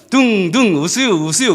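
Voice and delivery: slurred half-hearted call through teeth; mumbled grudging call. Retold or imitated. Young teacher forcing out the invitation, mumbled and grudging. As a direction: swallow the words, barely bothering. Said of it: "이를 걸면서".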